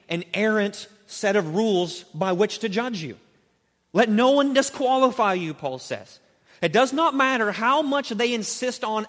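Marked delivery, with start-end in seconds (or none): 3.9-5.5 louder, punchier repeat of the warning; "Let no one disqualify you" pressed hard, stress on one; emphatic warning. Acted. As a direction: drive the warning home.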